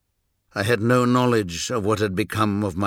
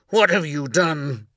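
higher, louder anguished cry; raging at the heavens; 7 semitones higher, 3 dB louder than usual. A narrator's reading. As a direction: hurl the question out in rage. Repeated cry after memory.

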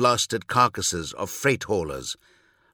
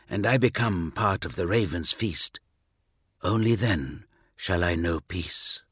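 solemn vow; 3 semitones lower, 3 dB quieter than usual. Acted. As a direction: swear it quietly to the dead. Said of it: "he vowed".

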